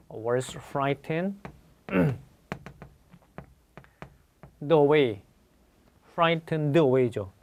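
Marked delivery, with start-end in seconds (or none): 0.1-1.4 slow dictation. Shown as a demonstration. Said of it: "수동태가 나오면". 6.1-7.3 slow dictation. Shown as a demonstration. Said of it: "수동태가 나오면".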